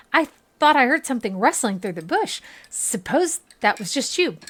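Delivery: a jumpy villager easing off after a scare; a hint of a wary country traveller; startled villager. Reads NPC villager dialogue.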